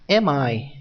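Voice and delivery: Am I linked into one word, m flowing into I. Shown as a demonstration. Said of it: "Eu juntei o som do M com o som do I".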